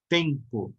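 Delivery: "Tempo" with a long, strong TEM; stress on penultimate syllable. Shown as a demonstration. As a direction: lean on the first syllable of "Tempo". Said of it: "Os paroxítonos na penúltima sílaba".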